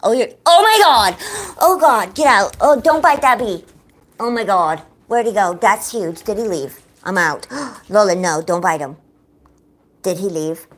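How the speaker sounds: loud, startled yelling; real panic. Real, not acted. Owner stopping Lola biting a huge bee, panicked yelling. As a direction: yell in alarm, gasping between bursts.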